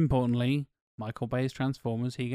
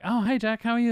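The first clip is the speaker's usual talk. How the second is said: higher-pitched mock cheery hello; imitated friendly greeting; 8 semitones higher than usual. Castmates greeting Jack before a take, imitated friendly hello.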